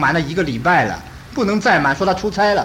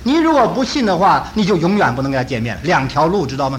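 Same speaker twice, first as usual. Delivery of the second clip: raised, urgent mother pleading; fervent preaching; 3 semitones higher than usual. Retold or imitated. Grieving mother urging son's friends to believe, fervently. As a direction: press the gospel on them with fervour.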